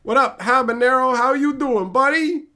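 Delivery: high, bright hello to a viewer; cheery greeting. Real, not acted. Greeting a chat regular named Habanero, high cheerful hello. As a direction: greet your buddy with a lift.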